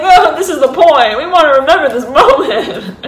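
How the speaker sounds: high, loud, laughing gush; excited gushing. Retold or imitated. Photographer laughing, urging the viewer to keep the moment. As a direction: sell the moment, bubbling over. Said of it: "And they're like".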